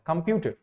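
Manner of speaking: कंप्यूटर as "com-PYU-ter", middle syllable stressed; stress on second syllable. Shown as a demonstration. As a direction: put the weight on "pyu" in कंप्यूटर. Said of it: "थोड़ा सा ज्यादा syllable है". (कंप्यूटर में बीच के "प्यू" पर ज़ोर)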